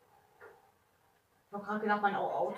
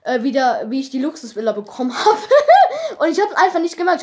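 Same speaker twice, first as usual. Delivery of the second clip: laughing frustrated apology; 3 semitones higher, 15 dB louder than usual. Real, not acted. Recording stopped, apologizing to viewers.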